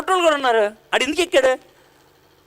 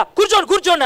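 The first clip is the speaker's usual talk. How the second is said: mock shout; 6 semitones higher than usual. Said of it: "అని అరుస్తుంటే".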